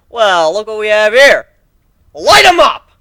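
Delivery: loud, high gleeful taunt; battle taunt. Acted. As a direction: call out to the enemy, spoiling for a fight.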